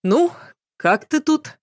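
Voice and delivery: bright, forced cheer for a sick friend; too bouncy, like visiting the very ill; overly cheerful. A narrator's reading. Narrator greets sick Petrovna with forced cheer. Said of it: "излишне бодрым голосом".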